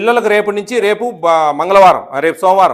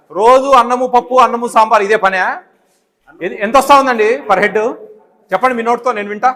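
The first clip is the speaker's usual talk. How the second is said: angry scolding; 3 semitones higher, 4 dB louder than usual. Real, not acted. Official scolding the hostel warden.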